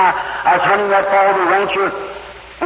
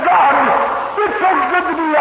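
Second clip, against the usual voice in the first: higher and fast, bursting with joy; joyful outburst; 6 semitones higher than usual. Retold or imitated. Overjoyed on the mountain, crying out to God in excitement. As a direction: let the happiness spill over the words. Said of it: "I got so happy".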